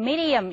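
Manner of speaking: flick the tongue tip for the d in "medium"; American pronunciation. Shown as a demonstration. Teacher showing how Americans say medium, tapped-d pronunciation. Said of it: "미국 사람들이 발음할 땐".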